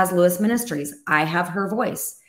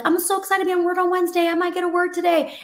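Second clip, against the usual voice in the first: much higher, fast giddy voice; mock excitement; 10 semitones higher, much faster than usual. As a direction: imitate an over-eager listener, high and quick. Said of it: "you might be tempted to be like".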